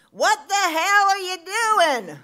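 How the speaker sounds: loud, high, drawn-out mock holler; acted-out outraged yell, slow and piercing; imitated scream. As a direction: holler it from a hilltop as him. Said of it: "from the top of the hill screamed at me".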